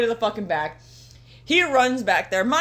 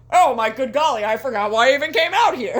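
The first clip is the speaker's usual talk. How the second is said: louder, folksy hammed-up villain; exaggerated folksy MJF impression; hokey MJF voice; 2 semitones higher, 4 dB louder than usual. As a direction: play him as a gee-whiz hick. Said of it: "This is not how M J F fucking sounds".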